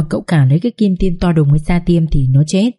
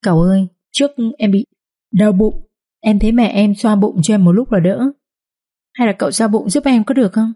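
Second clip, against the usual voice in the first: wincing whine; 3 semitones higher than usual. Acted. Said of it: "nó lại nhăn nhó và nói tiếp".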